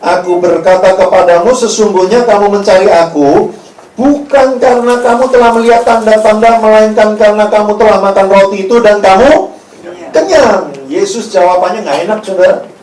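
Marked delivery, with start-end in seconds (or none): 0.0-10.7 loud, emphatic Bible reading; scripture reading. Acted. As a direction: declaim the verse forcefully. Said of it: "Yesus menjawab mereka".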